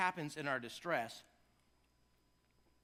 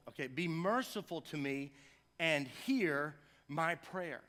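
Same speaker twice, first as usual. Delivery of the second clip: slow, earnest reading of the psalm; measured prayerful recitation; scripture reading; slower than usual. Acted. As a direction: read each line slowly like a prayer. Reads the psalm aloud.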